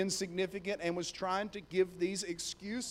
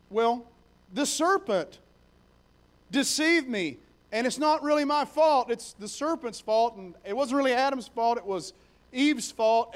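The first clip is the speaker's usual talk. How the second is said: defensive excuse; 3 semitones higher, 4 dB louder than usual. Acted. Eve shifts blame to God.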